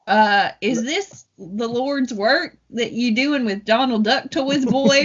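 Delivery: failed Cockney sliding into country drawl; slow, hammed-up country accent instead of Cockney; attempted Cockney accent. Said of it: "trying to go more for Cockney".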